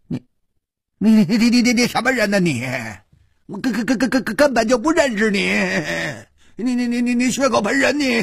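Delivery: a terrified man denying his friend, high and stammering; trembling stammer. Acted. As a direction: stutter every word in panic. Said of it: "他颤声说".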